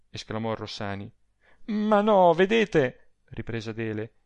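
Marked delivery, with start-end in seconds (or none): 1.7-3.2 high-pitched, insistent objection; agitated protest. A narrator's reading. Adele contradicts Rossani's hope, agitated. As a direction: cut in with anxious insistence.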